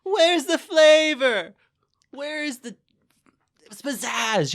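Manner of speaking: high, loud, slow complaint; exasperated. Retold or imitated. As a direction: demand it in mock despair. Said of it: "I'm like".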